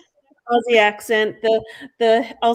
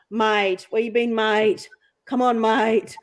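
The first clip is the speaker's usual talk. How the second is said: everyday Queensland "mate" talk in an Australian accent; typical Aussie accent; slower than usual. Shown as a demonstration. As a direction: chat like a central Queensland Aussie. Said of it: "that's fairly typical".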